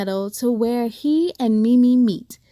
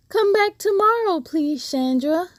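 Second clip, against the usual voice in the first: calling out; 6 semitones higher than usual. Acted. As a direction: call it high toward the woods. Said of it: "Mimi calls".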